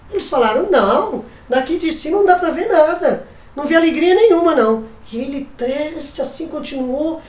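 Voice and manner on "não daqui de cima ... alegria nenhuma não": calling down. Acted. Trapezistas respondem de cima.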